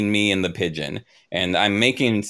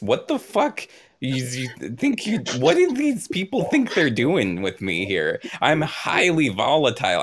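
angry outburst; 3 semitones higher than usual. Acted. Player voicing enraged viper creature.

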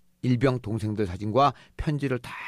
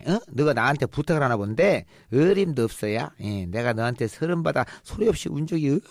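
scornful refusal; 3 semitones higher than usual. Retold or imitated. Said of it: "하고 부탁을 거절했죠".

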